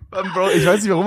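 words spilling out mid-laugh. Real, not acted. Laughing at his own Russian pronunciation. Still laughing after the rating.

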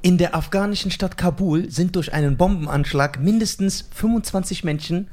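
cheerful, exaggerated newsreader; hammed-up bright news voice; mock newsreader, strangely happy; overdone news read. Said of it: "Warum bist du so glücklich dabei".

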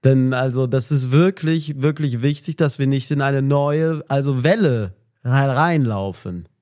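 slurring, swinging politician's warning; Lauterbach impression. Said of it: "Lauterbach kann ich auch". (Lauterbach-Imitation, höher und stockend mit vielen also)

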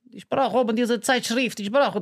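put-on high, slow Russian-accented voice. Kid accomplice asking the kiosk woman for a magazine, Russian accent. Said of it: "der war halt ein Russe".

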